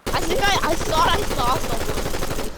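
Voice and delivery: sudden startled whisper-gasp, slowing down. Real, not acted. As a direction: caught off guard, alarmed. Spotting an enemy, gasping.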